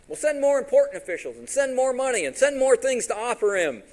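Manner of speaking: high, loud demands; insistent king. Retold or imitated. King ordering officials back to Balaam, loud and insistent. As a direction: order it loudly, pitched well up.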